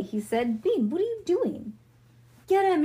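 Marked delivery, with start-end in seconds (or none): 0.6-1.7 high, swooping question; baffled protest. A narrator's reading. Leo startled by Bean beside him, baffled protest. 2.5-2.8 high, loud shout; yelled command. A narrator's reading. Bean ordering Ivy to net Leo, yelled command. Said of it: "she yelled to Ivy".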